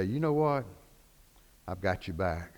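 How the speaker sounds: soft, low promise of support; hushed, steady comfort; quiet reassurance. Acted. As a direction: reassure them gently, dropping low. Reassuring a troubled person.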